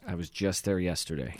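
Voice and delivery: hushed whisper. Real, not acted. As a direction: drop to a whisper. Whispered aside.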